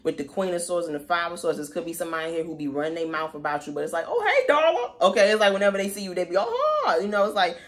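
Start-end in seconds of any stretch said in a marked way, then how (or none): 4.1-4.9 high, syrupy fake-nice hello; fake-sweet greeting. Two-faced coworker greeting you, mock sugary. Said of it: "very passive aggressive or nice". 6.4-7.2 high, sugary fake politeness; fake-nice gush. Gossiping coworker faking friendliness, high and sugary. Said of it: "very passive aggressive or nice".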